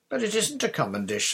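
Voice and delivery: put-on eager little boy asking to help; young boy Roger. Little brother begs the captain to moor the boat, high eager boy voice.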